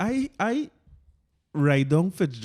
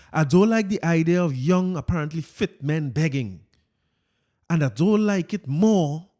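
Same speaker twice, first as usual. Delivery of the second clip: Fitz voice. Retold or imitated. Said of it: "let me get my Fitz voice here".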